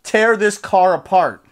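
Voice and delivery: loud, slow, punched-out mock threat; snapped threat. Billy threatening the rental car, retold angry outburst. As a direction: imitate an enraged friend, word by word. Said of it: "he snapped and he said".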